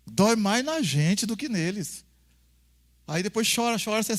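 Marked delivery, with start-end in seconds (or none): 0.1-2.0 slow, weighty. Shown as a demonstration. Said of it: "repetição".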